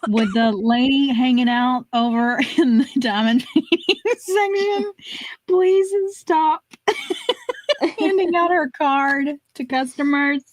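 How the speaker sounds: mock tannoy request, breaking into laughter; store announcement. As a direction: announce to shoppers while cracking up. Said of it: "They're gonna start announcing".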